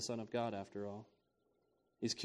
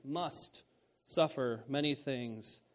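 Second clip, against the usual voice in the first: slow emphasis on must; slower than usual. Shown as a demonstration.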